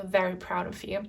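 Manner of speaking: soft echo. Real, not acted. Reader softly repeats to the viewer that ancestors are proud, quiet. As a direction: let it fall to a hush, tender.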